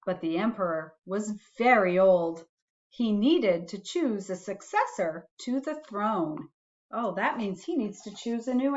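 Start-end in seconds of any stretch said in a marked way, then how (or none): 0.0-6.5 put-on gentle read-aloud for a child; reading a bedtime story to a little one; storybook reading. A narrator's reading. Parent reading a picture book to a child, gentle storytelling.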